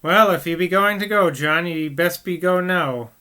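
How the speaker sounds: wife crossly telling her husband to leave. Acted. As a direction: snap at him mildly. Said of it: "said Megan crossly".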